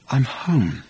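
mildly dreamy, savouring it; blissful relief. Acted. Arthur repeating to himself that he is home, blissful. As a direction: linger gently on the word home.

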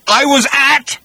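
high, loud monster roar; roaring creature. Acted. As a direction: roar it like a furious beast. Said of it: "roared Agrajag".

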